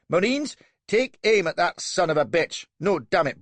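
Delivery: high, loud and furious; young captain ordering the marines to fire; raging order. A narrator's reading. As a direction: spit out the command. Angry orders.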